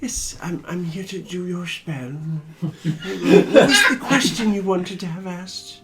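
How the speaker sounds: owl voice. Acted. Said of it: "you gotta do the owl voice".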